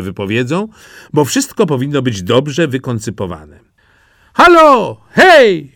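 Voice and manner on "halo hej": high, loud hail down the road; calling out. Acted. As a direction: shout cheerfully after the brothers. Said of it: "wołał Głupi Jaś".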